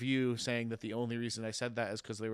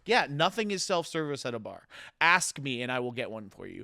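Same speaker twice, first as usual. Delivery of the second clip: retold scolding; 5 dB louder than usual. Retold scolding of bar customer.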